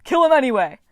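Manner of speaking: furious loud scream. Acted. Mars overruling Ares inside Frank's head, furious scream. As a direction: roar for blood anyway. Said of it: "Mars screamed".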